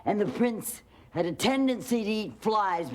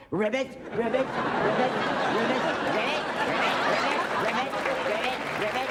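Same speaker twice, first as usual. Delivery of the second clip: higher croaky ribbits, bouncing up; frog croaking; 5 semitones higher, faster than usual. A narrator's reading. Grandma croaking frog sounds for bedtime story. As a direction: croak like a little frog, rising each time.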